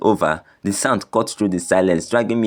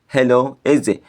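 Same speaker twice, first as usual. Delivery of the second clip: bright, eager phone greeting; cheerful; 4 semitones higher than usual. Acted. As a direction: sound glad to hear him. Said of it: "he said cheerfully".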